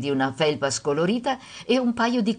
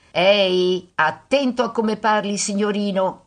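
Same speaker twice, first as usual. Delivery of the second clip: raised, scolding motherly call; shouted warning; 4 semitones higher, 5 dB louder than usual. A narrator's reading. Mother scolding son walking away, shouted warning. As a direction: call after him sternly, restrained shout. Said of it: "gli gridò la madre".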